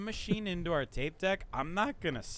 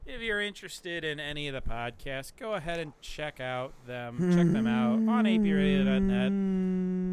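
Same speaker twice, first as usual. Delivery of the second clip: light announcer read; radio plug; 2 semitones higher than usual. Acted. Host promoting the station, announcer read.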